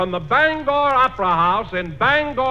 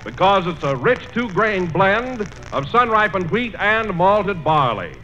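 ad read; 2 semitones lower than usual. Acted. Announcer reads a cereal ad.

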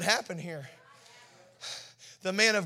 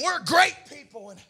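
boastful claim; 4 semitones higher, 3 dB louder than usual. Acted. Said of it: "they start saying".

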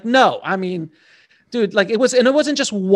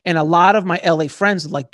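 normal talking voice

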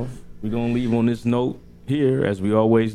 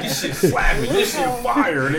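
stage whisper; 9 semitones higher than usual. Shown as a demonstration. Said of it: "I can't really whisper that".

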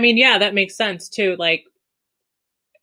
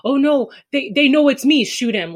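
higher, hurried panicky voice; mock panic; 7 semitones higher than usual. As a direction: play a man who thinks he's caught. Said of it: "he panicked and was like".

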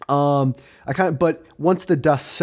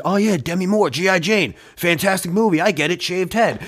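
mock Will Smith; 4 semitones higher than usual. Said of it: "you think Will Smith remembers".

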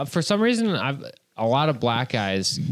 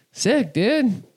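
high, upbeat send-off; breezy excited fan; 9 semitones higher, slower than usual. Retold or imitated. Fans saying goodbye to the doorman, breezily excited. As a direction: imitate a cheery dude leaving.

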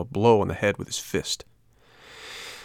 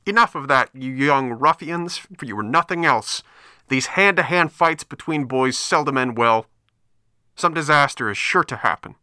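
high trumpet-like crab with a bad cold; hoarse scolding crab; 6 semitones higher, 3 dB louder than usual. Old crab scolds fighting boys, hoarse trumpeting call. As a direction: call out hoarsely, pitched well up. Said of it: "called out in a hoarse voice that sounded like a trumpet".

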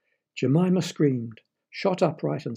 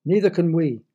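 loud, higher indignant splutter; raised, affronted retort; 4 semitones higher, 7 dB louder than usual. A narrator's reading. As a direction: splutter back in protest. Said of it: "the left ear that spluttered".

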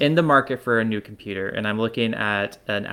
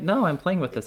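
whiny; 6 semitones higher than usual. Retold or imitated. Retorts as his past self.

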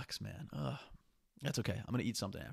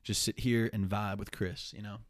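laid back; 4 dB louder than usual. Real, not acted. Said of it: "just chill with me".

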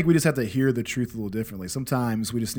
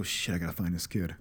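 softer muttered panic under the breath; panicked aside; 5 semitones lower, 8 dB quieter than usual. Retold or imitated. Dad realizing the kid is gone, softer panicked aside. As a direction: say it to yourself so she can't hear.

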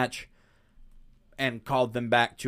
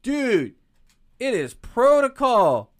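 incredulous rant; 9 semitones higher, 6 dB louder than usual. Real, not acted. Speaker ranting at boss.

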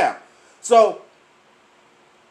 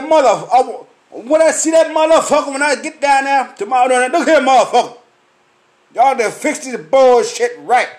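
higher and louder, scolding the cooks; retold angry threat; 5 semitones higher, 3 dB louder than usual. Warning the food truck cooks, a loud angry threat. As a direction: tell them off like you mean it. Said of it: "I said".

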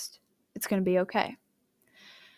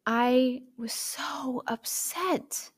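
laughing whisper; 4 semitones higher, much slower than usual. Real, not acted. Recalling lost memories.

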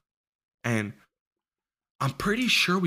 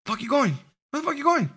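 put-on rowdy drunk friend; faster than usual. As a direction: play the drunk friend, pitched way up. Drunk friend protests leaving.

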